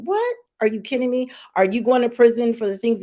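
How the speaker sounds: outraged disbelief. Real, not acted. Outraged at prison threat.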